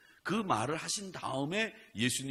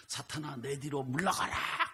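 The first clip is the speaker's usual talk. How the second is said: laughing half-hearted rebuke; 6 semitones higher than usual. Retold or imitated. Wife retelling her half-hearted resistance.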